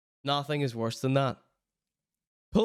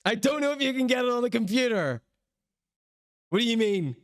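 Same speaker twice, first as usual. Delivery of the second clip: higher-pitched mock imitation of a confused man; exaggerated, higher baffled voice; mocking mimicry; 7 semitones higher, faster than usual. Mimicking the man in played clip.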